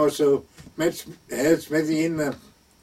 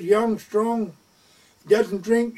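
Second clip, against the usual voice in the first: eager pilot; 6 semitones higher, much slower than usual. Retold or imitated. Pilot listing nephew's virtues.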